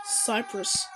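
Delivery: soft, low falling "Cyprus"; low-key statement of "Cyprus"; subdued naming. Real, not acted. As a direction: say "Cyprus" quietly, dropping away. Flag named, then named as question.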